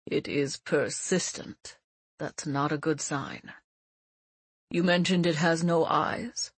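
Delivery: put-on a grave old teacher; old mentor voice.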